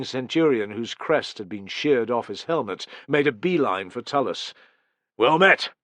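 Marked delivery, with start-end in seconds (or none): 5.2-5.7 grinning greeting. Acted.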